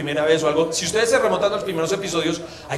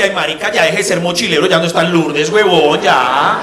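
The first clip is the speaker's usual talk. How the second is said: scolding friend; 2 semitones lower, 6 dB louder than usual. Retold or imitated. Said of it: "me tocó decirle".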